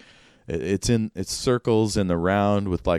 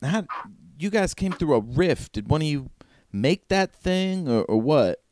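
high, curious villager voice; raised pitch, puzzled local; high stranger voice; 8 semitones higher than usual. Acted. Stranger questions the newcomers.

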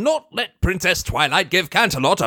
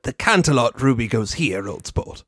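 Fancy Pants voice; 8 semitones lower than usual. Acted. Fancy Pants voiced fixing statue.

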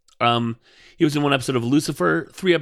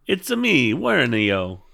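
Wario impression; slower than usual. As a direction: toss off the Wario catchphrase. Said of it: "sound like Wario".

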